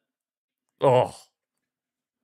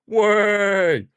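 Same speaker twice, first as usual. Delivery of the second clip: excited yelp; 8 semitones higher, 5 dB louder than usual. Real, not acted. Free kick finally given.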